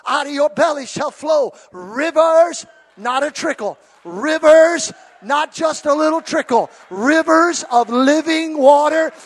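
loud, rising preacher's cry on "rivers"; full-force preaching. Acted. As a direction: preach it to the rafters. Preacher quoting scripture at full force.

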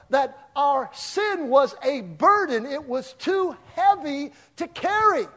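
loud, high preaching. Acted. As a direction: preach it out with force. Preaching at full force.

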